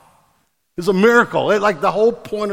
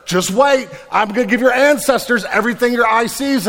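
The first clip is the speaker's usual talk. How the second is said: loud, high, driving sermon voice; booming preacher voicing God's promises; fiery preaching; 6 semitones higher, 7 dB louder than usual. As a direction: preach it out big to the room. Preaching God's promises at full force.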